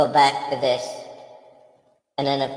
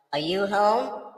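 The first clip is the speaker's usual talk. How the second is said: calling down a hallway; 5 semitones higher, slower than usual. Pretend. Ghost calling through a house.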